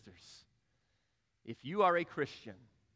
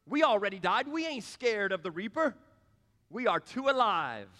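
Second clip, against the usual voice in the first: loud lyric quote; 5 semitones higher, 4 dB louder than usual. Retold or imitated. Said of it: "This is what it says".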